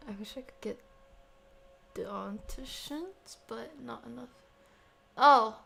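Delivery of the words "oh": loud sudden gasp; startled; surprised exclamation. Real, not acted. Sudden notice.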